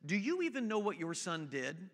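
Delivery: understated, unruffled question; very calm. Retold or imitated. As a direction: ask it quietly and evenly, imitating a composed principal. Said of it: "very calmly just says".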